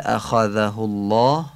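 اخذه الله with the dhal made at the tongue tip. Shown as a demonstration. Teacher demonstrating the dhal in اخذه الله, tongue-tip dhal.

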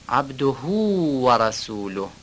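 عبده و رسوله with the vowel before و stretched; slow, stretched vowels in عبده و رسوله; lengthened vowels. Shown as a demonstration. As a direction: draw out the vowels slowly. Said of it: "اشباع حرکت ها".

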